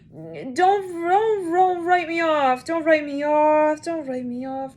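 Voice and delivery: high, slow crying plea; tearful plea. Retold or imitated. A man begging not to be written off, high crying plea. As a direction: beg through tears, drawn out. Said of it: "High Priest in reverse".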